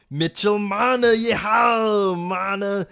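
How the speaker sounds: high, loud cheering call; excited shout. Real, not acted. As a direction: whoop it out like a cowboy. Excited player announcement.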